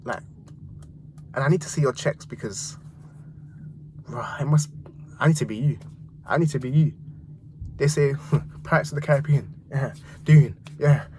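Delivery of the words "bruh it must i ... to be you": awed whisper. Real, not acted. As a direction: breathe it out in awe. Awed aside about the composer.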